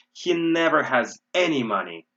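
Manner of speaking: emphasize the word "any"; stress on any. Shown as a demonstration. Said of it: "We're emphasizing this".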